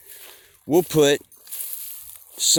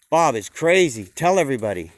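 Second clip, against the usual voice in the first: louder, pointed call to the herd; loud sheep gossip; 6 dB louder than usual. Acted. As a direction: announce it to everybody. Sheep gossip about Bob.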